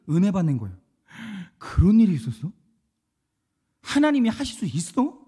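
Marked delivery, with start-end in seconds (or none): 1.6-5.2 retold wondering question, rising at the end; amazed questioning. Listeners reacting to a testimony, amazed questioning. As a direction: ask it as if hearing astonishing news.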